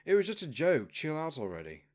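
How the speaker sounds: loud, high protest that trails off; guard caught joking about eating the dragon, loudly defensive. Acted. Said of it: "One of the royal guards then said".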